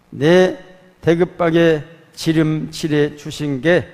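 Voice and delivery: loud, earnest Jeolla dialect recitation of the psalm; 전라도 사투리로 힘차게 낭독; Jeolla dialect reading. Pretend. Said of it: "방언으로 번역은 시편 이십삼 편을 한번 준비를 해봤어요".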